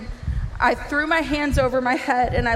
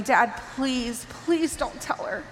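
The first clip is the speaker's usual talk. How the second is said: retold plea, drawn-out second please; slow, imploring plea to a parent; begging; slower than usual. Daughter begging dad not to tell mom, pleading. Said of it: "begging him".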